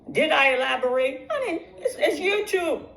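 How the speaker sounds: high, laughing, carried away; bubbling over with glee about the money; giddy and laughing, pitch jumping up; getting excited. Real, not acted. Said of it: "I'm getting excited".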